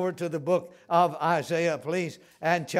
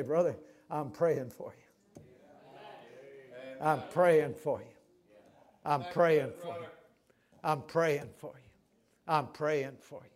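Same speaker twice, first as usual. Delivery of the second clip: gentle reassurance; 3 semitones lower than usual. Shown as a demonstration. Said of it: "slip your arm around him and say".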